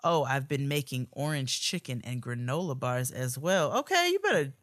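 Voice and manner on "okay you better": hype. Acted. Hyping up a listener's cooking.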